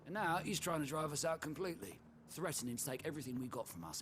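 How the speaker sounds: worked-up, resentful griping; indignant complaint. Acted. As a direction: vent a trader's grievance. Trader complains about the duke.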